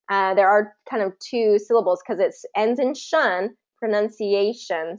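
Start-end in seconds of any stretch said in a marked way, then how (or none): 3.8-5.0 "pronunciation" slowly, with a beat on A before "tion"; measured teacher's demo of "pronunciation", stressing A; two-stress demo. Shown as a demonstration. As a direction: lean on the A in "pronunciation". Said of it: "there is a secondary stress".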